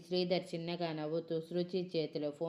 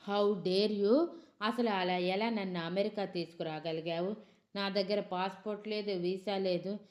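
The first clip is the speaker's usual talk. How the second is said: angry shouting; 2 semitones higher, 3 dB louder than usual. Acted. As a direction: yell at him while hitting him. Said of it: "అని కోపంగా అరుస్తూ అడిగింది". (కోపంగా అరుస్తూ)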